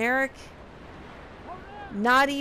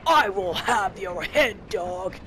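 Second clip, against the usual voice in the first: slower, mock-menacing redneck villain, lightly voiced; redneck bad guy threat; 3 semitones lower, 3 dB louder, slower than usual. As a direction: drag out a cheesy villain threat, not shouted. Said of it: "basic redneck bad guy voice".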